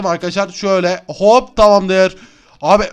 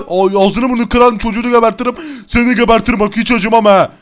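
different thuggish voice, threatening; villain threat. Acted. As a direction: menace the child's rescuer. Kidnapper threatens the child.

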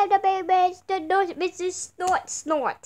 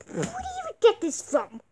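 much higher, disbelieving question; incredulous; 13 semitones higher than usual. Acted. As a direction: ask in shocked disbelief. Incredulous high.

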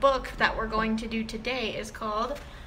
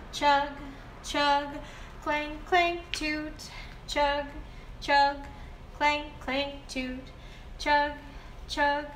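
put-on reading to a toddler; slower than usual. Reads picture book aloud.

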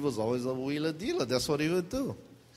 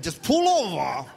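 louder, laughing plea to stop; louder pleading; 4 dB louder than usual. Retold or imitated. Embarrassed kids beg mom to stop, louder with a laugh. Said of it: "we were like".

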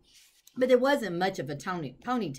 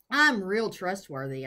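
earnest pleading; 5 dB louder than usual. Acted. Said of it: "I said".

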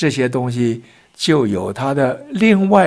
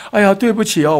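loud apology; 3 semitones higher than usual. Retold or imitated. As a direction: announce the blame loudly to the whole lift. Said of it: "他就很大声地说".

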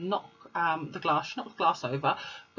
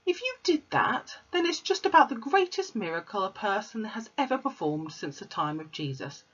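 higher teacher voice, doubtful; Miss Honey; 4 semitones higher than usual. Acted. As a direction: question the child in disbelief.

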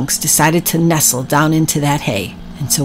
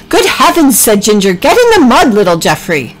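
Ginger's voice; 4 semitones higher, 3 dB louder than usual. Acted.

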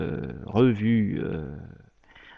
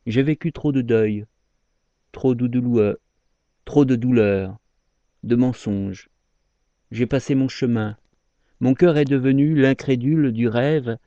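measured verse, each phrase set apart; poem recitation. Acted. Speaker confesses to a lover they loved badly, poem recitation. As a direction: let each line of regret settle before the next.

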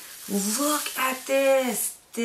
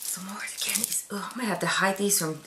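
conspiratorial whisper; 5 dB quieter, faster than usual. Real, not acted. Hiding candy from her kids.

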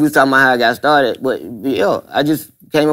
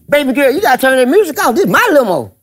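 higher, smug condescending voice; imitating Teddy; 8 semitones higher than usual. Teddy Carpenter telling Dirty to turn the music off, with a higher smug voice. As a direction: talk down to her smoothly.

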